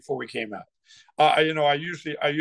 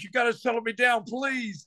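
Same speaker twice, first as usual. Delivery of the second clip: mock plea; 8 semitones higher than usual. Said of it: "I was so excited".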